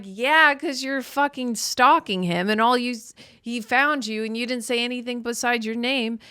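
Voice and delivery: loud, high exasperated yell; mock exasperated retort. Comic yelling at the movie heroine, loud and high. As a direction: shout back at her in disbelief. Comedian yelling back at Meg.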